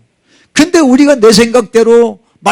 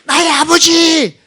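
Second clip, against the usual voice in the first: slow, high pleading cry; yearning call to God; 9 semitones higher, much slower than usual. Shown as a demonstration. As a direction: draw out each word calling to Father. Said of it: "이렇게 부르게 될 줄로".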